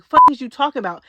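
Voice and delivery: loud, fast, exasperated blurt; outraged outburst. Real, not acted. Ranting at Rolly over body shaming, a loud fast outburst. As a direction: fire it off loud and quick.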